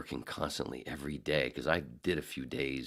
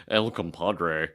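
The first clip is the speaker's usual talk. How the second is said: put-on slow, stiff nasal white-guy accent, louder; imitating white voice; 7 dB louder, much slower than usual. Coworker mocking the restaurant name in a white-guy voice. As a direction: draw it out like a square white guy. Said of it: "Eddie Murphy doing the white voice".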